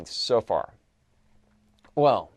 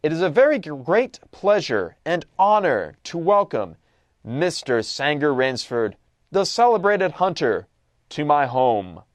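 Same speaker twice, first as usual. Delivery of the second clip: put-on cultivated, accented general; 2 semitones higher, 4 dB louder than usual. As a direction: play the refined general, each phrase weighed out. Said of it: "cultivated voice, marked by a slight accent".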